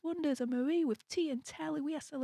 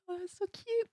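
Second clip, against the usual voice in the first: re-enacted cute gushing; 9 semitones higher than usual. Streamer quotes own reaction to sticker, gushing. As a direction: mimic your own gush, pitched way up. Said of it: "I'm just like".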